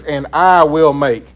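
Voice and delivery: slow, I weighted and falling; slow, leaning on I, God as the doer; stress on I. Shown as a demonstration. Teacher counting God's promises, slow with I pressed. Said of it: "how many times God says".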